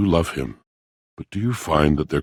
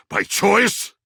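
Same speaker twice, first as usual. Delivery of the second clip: much higher, incredulous rise on choice; indignant surprise. Acted. Echoing the traveler's accusation, high indignant disbelief. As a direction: fling the word choice back, outraged. Repeats question, second sharply.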